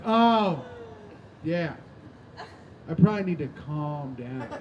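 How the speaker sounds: mom pretending to agree before she blows; ominous false calm. Mom's ominous reply before exploding.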